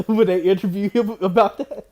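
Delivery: normal talking voice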